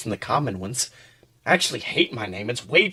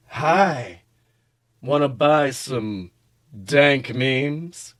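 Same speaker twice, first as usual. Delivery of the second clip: shady dealer voice; much slower than usual. Acted. Shady meme dealer offers memes.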